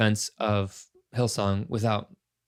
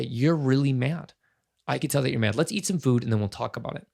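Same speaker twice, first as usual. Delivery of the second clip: validating parent. Shown as a demonstration. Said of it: "Or I could say".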